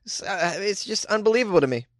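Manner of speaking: ordinary delivery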